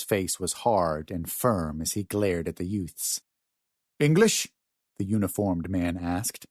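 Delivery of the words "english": sharp, raised, questioning challenge; almost accusing. A narrator's reading. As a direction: throw it out like an accusation, higher. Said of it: "tone of his voice was almost accusing".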